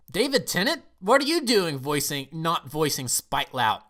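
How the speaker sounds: high, loud start, easing down; astonished recognition. Acted. Viewer recognizing the actor's voice, mock astonished. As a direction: play up baffled surprise.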